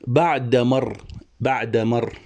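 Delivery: "بعد مر" with the article run into one sound; written as pronounced. Shown as a demonstration. Teacher showing how the verse is pronounced, sounded-out demo. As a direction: say "بعد مر" joined up, as it is heard. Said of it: "هنا أكتب كما ألفظ".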